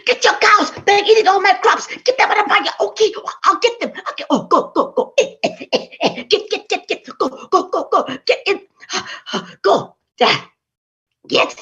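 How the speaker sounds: frantic yelling. Acted. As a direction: shout at the cows in a panic. Neighbors yell, man herds cows.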